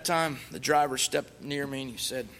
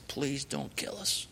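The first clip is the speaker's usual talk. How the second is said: slow, unvoiced whispered plea; whispered begging; 6 dB quieter, slower than usual. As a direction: beg in a hushed whisper. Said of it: "I begged that man".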